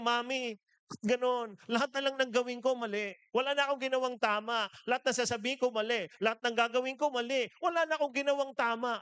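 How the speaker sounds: put-on high, fast complaining kid voice; whiny child. Child whining to her mother about always being wrong. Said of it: "Naalala ko yung bata, nagreklamo na sa nanay niya".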